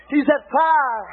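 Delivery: "He's that fire" drawn out slowly; slow emphatic repeat. Shown as a demonstration. Preacher repeating to the church, slowly and deliberately. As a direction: stretch "He's that fire" word by word.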